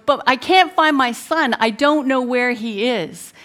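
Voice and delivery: recreate a frantic mother's yell, at moderate force; retold yell. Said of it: "I yell out".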